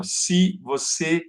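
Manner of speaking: "Se você, ó, grita" slowly, split syllable by syllable; syllable separation. Shown as a demonstration. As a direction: break "grita" into GRI and TA with pauses. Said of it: "Olha a separação aqui".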